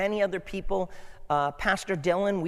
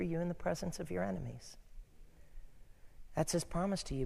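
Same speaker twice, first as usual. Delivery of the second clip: reassuring; 4 dB quieter than usual. Real, not acted. Pastor comforting congregation softly.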